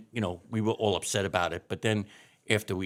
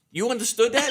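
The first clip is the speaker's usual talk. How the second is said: high, louder mock disbelief through a laugh; amazed friends; 13 semitones higher, 7 dB louder than usual. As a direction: laugh out their astonishment.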